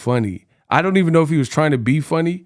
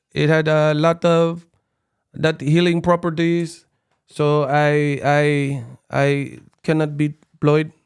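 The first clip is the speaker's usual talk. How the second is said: Pacquiao impression; 3 semitones higher than usual. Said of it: "Pacquiao came with the excuses".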